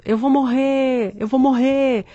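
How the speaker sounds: retold cry. Patient in the next bed fearing death, mock drawn-out cry. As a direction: imitate someone crying out, without real volume. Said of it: "ficava gritando".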